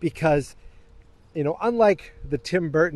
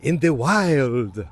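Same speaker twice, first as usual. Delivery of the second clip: vampire voice; much slower than usual. Pretend. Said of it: "I don't know why I'm doing a vampire voice".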